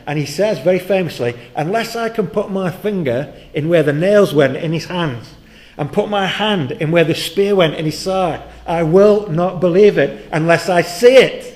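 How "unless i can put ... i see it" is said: loud, high, insistent ultimatum; defiant demand. Acted. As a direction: lay down the condition, forcefully. Thomas's famous demand for proof.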